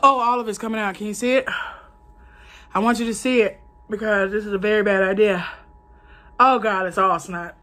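talking with a runny nose; snuffly, nose running. Real, not acted. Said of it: "Now my nose is running".

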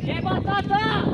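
calling out. Real, not acted. Kite flyer hailing a rival as batata, calling out. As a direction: call across to someone, stretching it.

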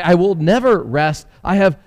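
high, gleeful little housefly voice. Acted. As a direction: sweep away happily like a busy fly. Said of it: "said the housefly".

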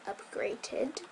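breathy whispered upgraded with a rising tune; sarcastic whispered aside; ironic air quotes. Shown as a demonstration. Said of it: "quote unquote".

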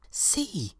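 an eager child showing something, lightly played; little girl. A narrator's reading. Little girl speaking to teacher.

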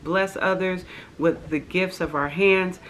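soft, earnest prayer voice. Real, not acted. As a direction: pray it humbly and quietly. Leads an opening prayer.

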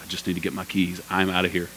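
low, soft under-the-breath quote; retold quiet getaway murmur; hushed aside. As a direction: say it low, as if slipping out unnoticed. Retold slipping out past praying women.

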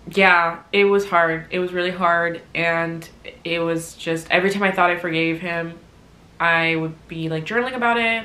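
ordinary talk, nothing marked

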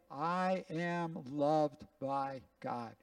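each word slow and deliberate; a pastor leading the room in a slow confession; slow recitation. Shown as a demonstration. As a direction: say it slowly so all can follow. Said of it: "Let's just say this together".

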